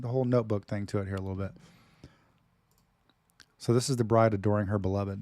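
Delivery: ordinary talk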